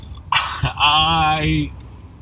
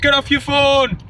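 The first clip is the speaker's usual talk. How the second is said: indignant outburst; 12 semitones higher than usual. Real, not acted. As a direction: yell at the driver in outrage. Outrage at phone-using driver.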